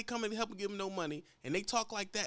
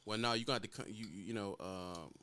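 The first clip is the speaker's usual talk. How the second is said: clerk; 10 semitones lower, 8 dB quieter than usual. Retold or imitated. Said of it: "With an attitude".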